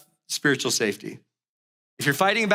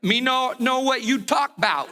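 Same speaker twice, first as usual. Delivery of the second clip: higher, dim-witted broken-English husband; mock dumbfounded caveman; 6 semitones higher than usual. Husband dodging his wife's golf bag question, mock dumbfounded. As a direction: play the suddenly clueless husband. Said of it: "what happened to him? Is he having a stroke?".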